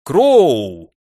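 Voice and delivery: long falling holler in another voice; повторный окрик. A narrator's reading. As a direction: bellow the name, drawing it out. Foreman calls again while approaching. (протяжный зычный окрик)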